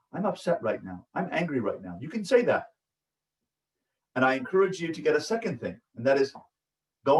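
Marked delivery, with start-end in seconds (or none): 0.1-2.0 calm, softer and lower; level one voice. Shown as a demonstration. Parent modelling calm words for a child, soft level one voice. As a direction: say it calmly, no raised voice. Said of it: "using your level one voice".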